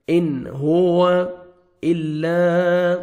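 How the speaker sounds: ان ہوا with the ن said clearly, no nasal hold; slow, distinct اظہار; clear nun. Shown as a demonstration. Teacher shows clear nun, slow. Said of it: "اظہار کرنا ہے".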